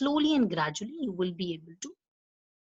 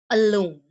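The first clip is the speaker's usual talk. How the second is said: alone with the stress on LONE; 7 dB louder than usual. Shown as a demonstration. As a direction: give LONE in alone the weight. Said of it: "say after me".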